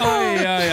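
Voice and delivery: sympathetic wince. Real, not acted. Host wincing in sympathy.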